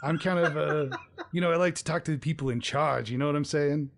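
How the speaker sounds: lightly voiced laid-back dude; a hint of a clueless bro brushing her off; surfer bro. Balding man dismisses Shar, casual bro voice.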